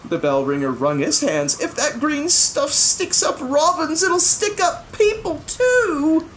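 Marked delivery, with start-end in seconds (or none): 1.6-6.3 worried. A narrator's reading. Bell ringer frets, wringing hands.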